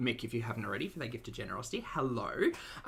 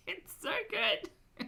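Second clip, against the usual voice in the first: Ocker French accent; 12 semitones higher, slower than usual. Shown as a demonstration. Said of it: "I love doing the Ocker French".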